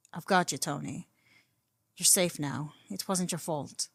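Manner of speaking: tender, hushed comfort; soothing. Acted. Clint cradling and calming Tony.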